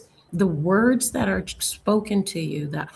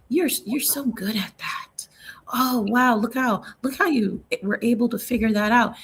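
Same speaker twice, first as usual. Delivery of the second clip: put-on praising a child; 2 semitones higher than usual. Parent praising child in a hushed, doting voice. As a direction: coo it like a proud parent.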